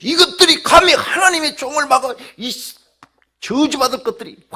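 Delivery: very high, very loud husky shouting; imitated hoarse screaming rant; furious tirade. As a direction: pour out abuse like an enraged pastor. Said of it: "막 퍼붓는 거예요".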